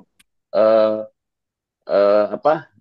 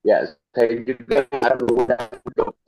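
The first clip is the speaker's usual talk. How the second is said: corrupted glitchy audio. Real, not acted. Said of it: "Suaranya putus-putus".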